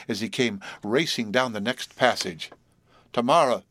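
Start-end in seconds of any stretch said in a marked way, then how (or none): 3.1-3.6 louder, passionate cry of a name; delirious crying out. Acted. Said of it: "she cried with delirious, unrestrained passion".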